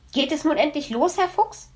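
high, whining little hedgehog; whiny child. Acted. Hedgehog child whining to Herr Fuchs, high and impatient. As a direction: whine that the ride should start. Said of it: "quengelte Borstel".

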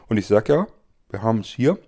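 talking around a candy in mouth; sucking a candy. Real, not acted. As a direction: speak while sucking a sweet. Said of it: "Ich hab einen Bonbon im Mund".

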